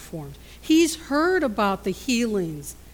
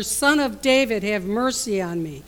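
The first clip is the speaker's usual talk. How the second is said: yells louder; 5 dB louder than usual. Retold or imitated. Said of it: "sits and yells even louder".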